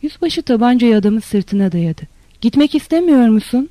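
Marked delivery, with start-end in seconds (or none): 2.4-3.7 higher, more forceful challenge; narrated officer's raised, threatening question; menacing demand. A narrator's reading. Officer repeats it, pistol drawn.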